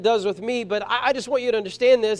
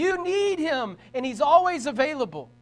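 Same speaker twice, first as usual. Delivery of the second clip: raised, impassioned pulpit voice; rousing sermon climax, pitched up and projected; full-force preaching; 5 semitones higher than usual. Real, not acted. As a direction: proclaim it to the whole congregation, building higher.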